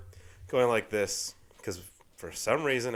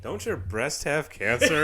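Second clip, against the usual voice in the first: slow line breaking into laughter; laughing quote; 3 semitones higher, 4 dB louder, slower than usual. Retold or imitated. Laughing while quoting The Room to a friend.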